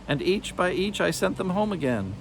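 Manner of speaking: a lightly voiced sly witch hissing; hissing hag. A narrator's reading. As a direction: hiss it with narrowed menace. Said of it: "the beldame hissed".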